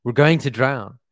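loud, slow cry for help; terrified shout. Acted. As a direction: shout it out as the boat sinks.

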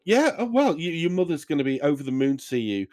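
cheery dad voice. Acted. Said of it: "he goes".

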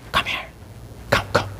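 hushed, kindly retold invitation; soft beckoning. Father calls a neighbor's child into his store, soft beckoning. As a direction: quietly coax a child over.

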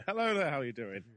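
loud, hearty handshaker hello; hearty greeting. Retold or imitated. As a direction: boom it like an eager glad-hander.

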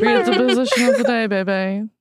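laughing, high and playful. Real, not acted. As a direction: egg her on through laughter. Cheering friend on, laughing.

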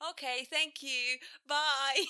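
put-on high, sweet, childlike phone voice; customer service voice. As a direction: chirp it like a kid on the phone. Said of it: "my customer service voice is".

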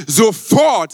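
Sofort called out loud; preacher proclaiming Sofort to the crowd, loud; loud proclamation. Shown as a demonstration. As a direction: announce the word Sofort with force. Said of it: "sag mal sofort".

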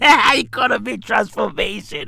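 repeating the title through a laugh. Real, not acted. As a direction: laugh the words out in disbelief.

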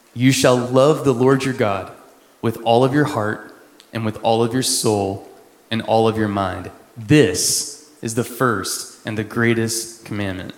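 solemn reading of the verse; scripture reading. Acted. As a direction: read it out as holy words. Reads scripture aloud.

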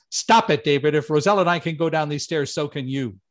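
stern teacher cutting off a panicking friend; best teacher voice. Retold or imitated. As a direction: snap him out of it like a teacher. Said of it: "in my best teacher voice".

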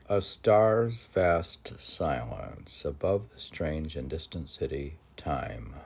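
measured poetic reading with swelling lines; poem recitation. Acted. Host reciting a Rilke poem to listeners, lyrical recitation. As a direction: read it as if the verse rises by itself. Reads next stanza.

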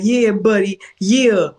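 a mock New York accent; imitated New York accent. Foreigner imitating an American from New York, mock New York accent. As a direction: play at being a New Yorker, accent and all. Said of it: "you're from New York".

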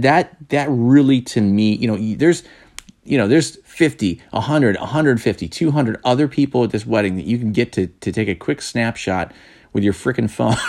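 worked up, leaning hard on key words; fired up. Real, not acted. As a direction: vent with rising, emphatic pitch. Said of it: "I'm getting fired up about this".

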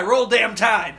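mock Alabama fan. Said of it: "Like some kind of fucking guy".

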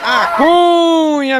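stretched-out high call of "A Cunha"; catchphrase shout. Acted. Comedian opening a joke with a long drawn call. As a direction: belt out "Cunha" slow and high.

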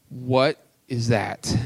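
slow, puzzled disbelief; baffled Moses. Retold or imitated. Moses to himself at the burning bush, baffled. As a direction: stare at something strange, drawn out. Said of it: "He probably was like".

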